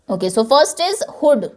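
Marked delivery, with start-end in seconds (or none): 1.2-1.4 "hood" said with a short quick vowel; short oo sound. Shown as a demonstration. Teacher models short oo in "hood" for class. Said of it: "छोटी sound है".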